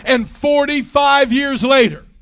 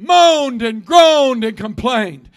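slow emphatic; slower than usual. Shown as a demonstration.

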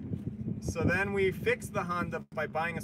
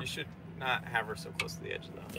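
whispering; 6 semitones lower, 11 dB quieter than usual. Real, not acted. Whispered aside during live stream.

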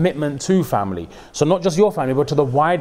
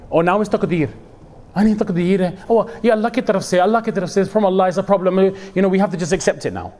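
higher, sing-song acceptance of fate; mock-pious mother-in-law; 5 semitones higher than usual. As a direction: play the sudden piety, hammed up.

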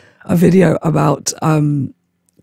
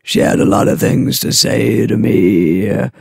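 lightly voiced old tale-spinner, drawn out; old storyteller; 5 semitones lower than usual. Cold-ridden speaker spins a mock tale for viewers, old storyteller. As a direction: spin a slow, low old-timer's yarn.

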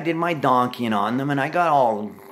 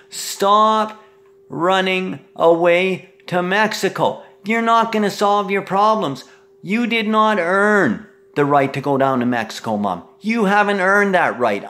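raised, hard voice, high and loud; angry rant; 4 semitones higher, 3 dB louder than usual. Real, not acted. Ranting at mom about Mexico, raised and angry. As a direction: tell her off, pushing loud and high.

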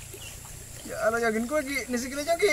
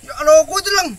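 ticklish yelp; 5 semitones higher, 9 dB louder than usual. Real, not acted. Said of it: "geli-geli gimana gitu".

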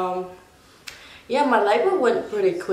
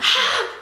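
high, gasped cry; short, high re-enacted gasp of pain; mock labour scream. Mother re-enacts screaming on the bed, high gasp. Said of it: "I was screaming".

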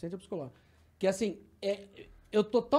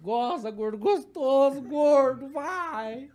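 acted-out tic rant, held in, then spilling over; imitating compulsive insult muttering; slower than usual. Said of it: "pra não gritar mesmo, E eu fico falando".

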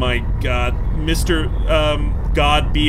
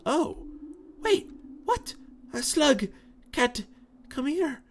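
much higher, eager short cries; excited high calls; 11 semitones higher, 7 dB quieter than usual. Real, not acted. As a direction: call out in delight. Spotting another slug cat.

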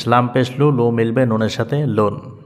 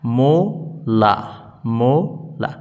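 syllable drill; slower than usual. Shown as a demonstration. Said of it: "প্রথমটার উচ্চারণ হচ্ছে".

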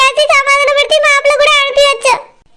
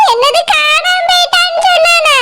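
a sharp, higher cry of disbelief; stunned, tearful outcry; shocked; 3 semitones higher than usual. Acted. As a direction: gasp it out as if the news just hit. Shocked at news of missing girl.

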